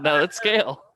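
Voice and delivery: insistent quote. Retold or imitated. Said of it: "He said".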